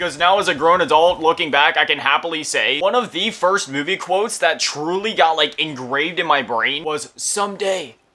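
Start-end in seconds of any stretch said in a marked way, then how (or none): 7.2-7.9 soft, hushed mob boss impression. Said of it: "that Vito Corleone impression".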